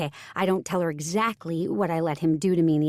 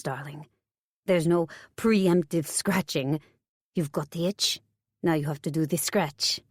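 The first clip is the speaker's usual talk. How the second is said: put-on French accent; 2 semitones lower than usual. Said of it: "I chalk it up to the accent".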